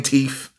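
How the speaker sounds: "teeth" said as "teef"; wrong pronunciation. Shown as a demonstration. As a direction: end "teeth" on an f sound. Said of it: "you shouldn't be saying teeth".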